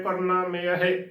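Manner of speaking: ਪਰਨਾਮਯ slowly, every syllable sounded; correct pronunciation. Shown as a demonstration. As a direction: draw out ਪਰਨਾਮਯ as a careful model. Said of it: "ਇਸ ਦਾ ਸ਼ੁੱਧ ਉਚਾਰਨ".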